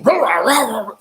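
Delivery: imitated silverback roaring; gorilla roar. Storyteller imitating a charging silverback, roaring. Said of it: "that big silverback came".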